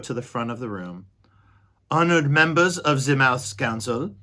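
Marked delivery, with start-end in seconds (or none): 1.9-4.1 loud, proud announcement; Furlow announcing. Acted. Furlow presenting his brother to the council. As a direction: present the prisoner with pride. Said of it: "shouted Furlow".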